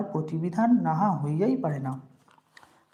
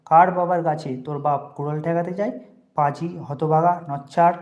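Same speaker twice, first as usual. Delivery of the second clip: louder and louder insults; contemptuous rage; 5 dB louder than usual. Acted. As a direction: spit the insults out, slowing on the names. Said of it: "অধর মুখখানা অত্যন্ত বিকৃত করিয়া কহিলেন". (রাগে চিৎকার করে গালাগাল)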